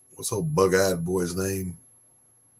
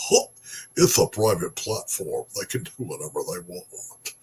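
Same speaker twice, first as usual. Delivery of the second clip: laughing mockery. Laughing repeat of opponents' line.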